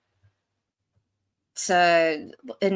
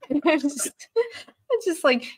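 laughing; 8 semitones higher than usual. Real, not acted. Laughing about sucking at games.

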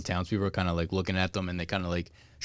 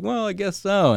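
raised sheepish quote; 11 semitones higher than usual. Retold or imitated. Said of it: "And he's like".

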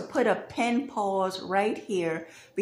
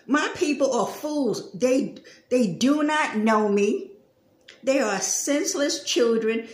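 scripture read aloud. Shown as a demonstration. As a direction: read "My people are fools" straight from the text. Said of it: "And this is what he says".

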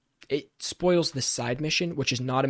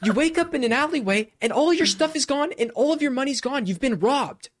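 higher and louder, laughing in disbelief; exasperated laughing rant about being scammed; outraged excitement; 10 semitones higher, 3 dB louder than usual. Real, not acted. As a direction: tell it like you can't believe you got robbed. Retelling getting scammed in game.

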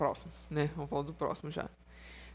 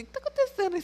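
a hint of a suspicious father, pitched higher; friend's father; much faster than usual. Imitating the friend's father asking what's going on. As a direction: ask like a puzzled dad overhearing. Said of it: "meu pai tava aqui falando assim".

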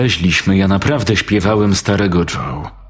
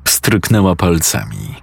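plain reading voice

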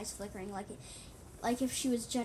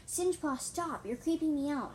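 high, raised protest; yelling; 5 semitones higher, 6 dB louder than usual. A narrator's reading. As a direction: yell at someone to back off. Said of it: "I yelled".

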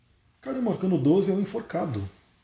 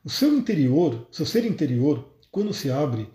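reading aloud. Acted. Reads the zen book aloud.

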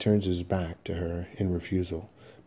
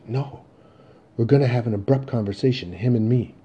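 assured, slightly raised voice; determined; 4 semitones higher, 5 dB louder than usual. Acted. Son insisting on facing his father, determined. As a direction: state it with absolute assurance. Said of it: "with absolute assurance, determination".

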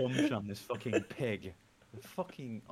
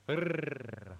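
rolled R; 2 semitones higher than usual. Shown as a demonstration. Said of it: "a lot of people can go".

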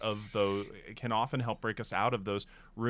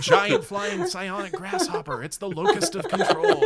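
high-pitched; 4 dB louder than usual. Pretend. High mock announcement.

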